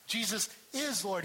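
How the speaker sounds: IS pressed firmly between Jesus and Lord; stress on is. Shown as a demonstration. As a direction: lean on the word is. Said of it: "He is that active one".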